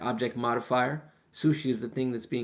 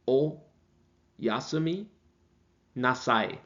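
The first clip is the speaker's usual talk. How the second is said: Oyasumi drawn out very slowly, then nasai; slow demo; much slower than usual. Shown as a demonstration. Teacher showing students good night, very slow. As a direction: stretch Oyasumi out for learners. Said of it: "repeated slowly".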